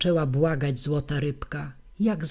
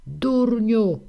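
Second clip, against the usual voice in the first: loud, higher shrieked insult; wife cursing her husband, shouting; shouting old woman; 6 semitones higher, 5 dB louder than usual. Acted. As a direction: scream it at him from the window.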